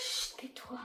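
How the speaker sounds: hushed whisper. Real, not acted. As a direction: whisper sharply to hush. Hushing while hiding.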